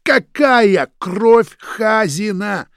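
loud, very slow sneering repeat; drawn-out mocking yell. A narrator's reading. Roman mocking Vitya's excuse, slow loud sneer. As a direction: stretch each word in scorn.

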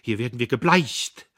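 loud, urgent, breathless; loud panicked gasp; gasping urgency. A narrator's reading. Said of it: "keuchte Diederich".

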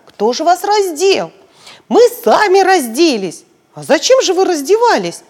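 quick family exchange; voices of mum and girls. Acted. Mum questioning the naked girls, alarmed.

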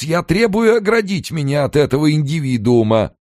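high, loud indignant plea; shrill demand. A narrator's reading. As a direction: demand protection in a panic. Amers demands protection, panicking.

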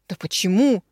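rising, insistent protest; exclaiming. A narrator's reading. Marina objects to his thanks, exclaiming. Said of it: "воскликнула Марина".

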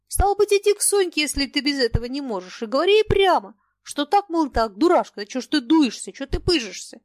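put-on high, loud, jeering old merchant voice; mocking old godfather lecturing his godson; mocking old man. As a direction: needle the young man, voice squeaking up. Old Mayakin's mocking tirade.

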